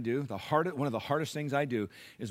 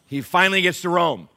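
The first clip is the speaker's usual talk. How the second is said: "finally" lifted higher and louder; emphatic retry; 5 semitones higher, 11 dB louder than usual. Shown as a demonstration. Pastor retrying for an unmoved congregation, "finally" stressed high and loud. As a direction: hit "finally" so its significance lands. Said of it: "Let me try that again".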